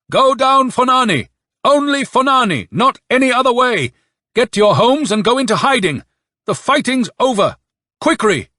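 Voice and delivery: high, full-voiced military bellow; bawling. A narrator's reading. Officer ordering cadets to flee, bawling. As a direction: bawl it out like a cavalry bugle. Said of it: "bawled out at the top of his voice".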